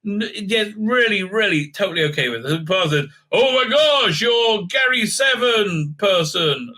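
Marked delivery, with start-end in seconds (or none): 3.3-6.7 mock gushing. Reviewer mimicking a gushing fan, mock excited shout. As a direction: ham up the starstruck fan.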